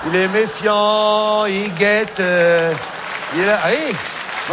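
a hint of a sly prowler peering around; acting out a wary prowler. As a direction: play the suspicious guy creeping along.

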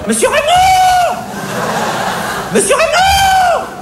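very high, slow, shrill call; shrieking for the boss. Acted. Cashier screams for her manager across the store. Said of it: "hurla-t-elle".

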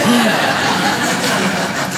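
long, breath-only gasp; acted stunned intake of breath; shocked gasp. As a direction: gasp as if deeply shaken. Stoned shock at identity doubt.

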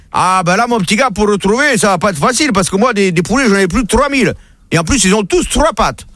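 lightly voiced country farmer. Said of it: "il va voir le fermier".

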